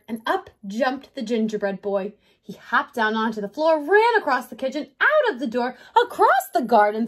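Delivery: lively read-aloud with punched action words; story narration. A narrator's reading. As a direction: tell the chase to young children. Narrates the escape to children.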